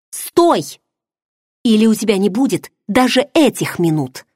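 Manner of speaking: high sharp shout of warning. Acted. Heroine on the railing threatens to jump, shouting. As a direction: stop him dead with the cry.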